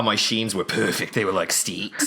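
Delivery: put-on Australian supermodel accent. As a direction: quote it like an Australian model, softly. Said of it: "Australian supermodel for a minute".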